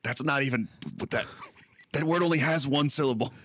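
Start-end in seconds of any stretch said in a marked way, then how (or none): 0.0-1.3 whispered aside. Real, not acted. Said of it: "whispered aside".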